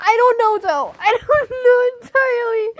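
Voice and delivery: high, strained words through laughter; barely getting it out; crying with laughter. Real, not acted. Streamer crying with laughter on stream, laughing. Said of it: "I was crying of laughter".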